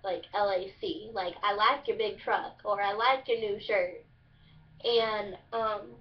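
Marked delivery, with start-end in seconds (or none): 1.4-2.6 Kentucky "like" said as "lack"; Kentucky dialect. Shown as a demonstration. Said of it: "it's lack". 2.8-4.1 Kentucky twang, "like" as "lack"; Kentucky dialect. Shown as a demonstration. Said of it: "it's lack".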